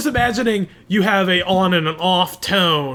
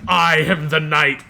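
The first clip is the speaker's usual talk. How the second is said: slow, lightly voiced omniscient alien; deep rumbling alien; slower than usual. All-powerful alien AI proclaiming itself in a fantasy setting, mock deep rumble. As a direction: give a hint of a deep, rumbling AI. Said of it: "really deep and rumbling".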